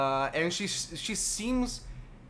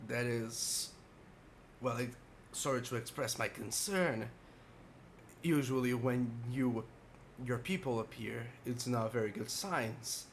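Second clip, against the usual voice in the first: put-on very old man; 2 semitones lower, 3 dB quieter than usual. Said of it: "a very frail old man".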